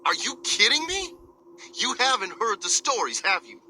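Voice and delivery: high, shocked disbelief; stunned they haven't heard; incredulous. Acted. Driver shocked by ignorance.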